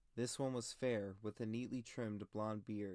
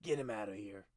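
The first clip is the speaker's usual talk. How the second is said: 1 commanding; 4 dB louder, faster than usual. A narrator's reading. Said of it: "he commanded".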